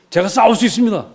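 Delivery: high, insistent declaration; volunteer boldly to the king; imitated boy insisting he can; eager volunteering. Young David volunteers to the king.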